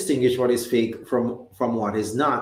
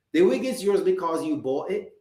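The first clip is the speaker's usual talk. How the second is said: ordinary talk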